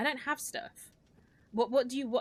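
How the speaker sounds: put-on talking-down voice. Retelling how a woman answered a man pulling a gun on her, mock-patronizing. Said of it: "she was really quite like patronizing and condescending".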